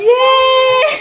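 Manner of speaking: high, loud yell into laughter; excited cheer. Real, not acted. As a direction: whoop with joy, then laugh. Found a hider, cheering.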